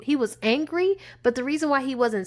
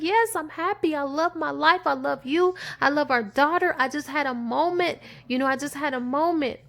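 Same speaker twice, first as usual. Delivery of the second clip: higher, begging tone, sentences rising; pleading wife; 5 semitones higher than usual. Retold or imitated. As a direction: plead with him to believe you.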